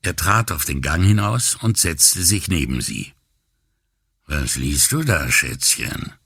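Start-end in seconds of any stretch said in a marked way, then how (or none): 4.2-6.1 low raspy pickup-line voice; a deep rasping sleazy come-on; low gravel vigilante growl. Acted. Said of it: "fragte er mit tiefer Stimme". (tiefe, kratzige Anmachstimme)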